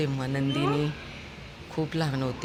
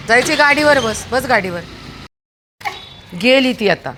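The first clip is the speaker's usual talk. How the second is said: much higher and louder coaxing; 6 semitones higher, 5 dB louder than usual. Real, not acted. Owner telling her dog to say bye to the girl, high baby-talk.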